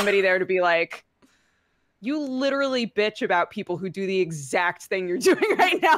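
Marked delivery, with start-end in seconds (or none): 2.0-6.0 calling someone out, building louder with a laugh; acted exasperation, breaking into laughter midway; mock exasperated call-out. Voicing the character who calls them out.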